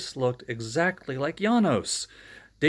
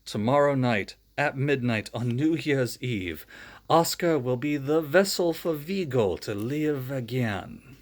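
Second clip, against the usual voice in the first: Janos. Acted. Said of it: "said Janos".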